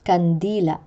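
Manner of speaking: Kandila with stressed -di-, throat closing after the final a; penultimate glottal stress. Shown as a demonstration. Teacher showing glottal catch, Kandila stressed on -di-. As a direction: stress the middle of Kandila, cut the end off. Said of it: "pronounced with a glottal catch".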